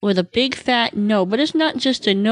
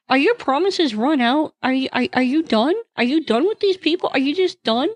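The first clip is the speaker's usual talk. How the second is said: angry questioning; 3 semitones higher than usual. Retold or imitated. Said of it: "really angry".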